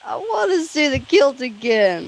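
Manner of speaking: slow mock girlish repeat; imitated schoolgirl voice. Cohost mimicking the guest's little schoolgirl voice. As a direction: echo the line as a lightly voiced schoolgirl. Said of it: "Just that little schoolgirl voice".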